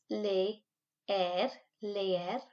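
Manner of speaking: leer as two separate E sounds, le-er; split vowels. Shown as a demonstration. Teacher shows pupils two E sounds in leer. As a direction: break leer into le and er. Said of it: "break up the two E sounds".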